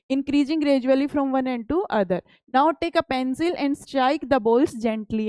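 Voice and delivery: reads each English word out slowly and carefully; slow textbook reading. Acted. Teacher reading the textbook aloud to pupils, slow and deliberate. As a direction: spell out the book line for the class.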